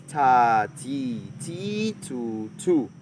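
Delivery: stretched vowels in "ta, ti, ti, tu, tu"; long vowels. Shown as a demonstration. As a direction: hold each vowel in "ta, ti, ti, tu, tu" long. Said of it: "For the long vowels is".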